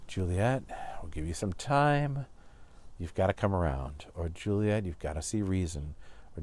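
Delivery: soft, gentle reassuring mother; soothing mother. Retold or imitated. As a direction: coax her kindly and quietly. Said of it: "Lady Capulet could say to Juliet".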